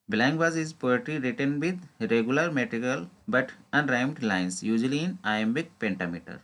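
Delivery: slow, deliberate reading of an exam question. Acted. Teacher reading a quiz question to exam students, slow and deliberate. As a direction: read each word out carefully, like dictation. Teacher reads answer slowly.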